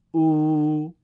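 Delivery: او held long, loud and level; long vav. Shown as a demonstration. Teacher showing two-beat vav maddi, prolonged. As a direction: stretch او over two beats. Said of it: "دو ضربی".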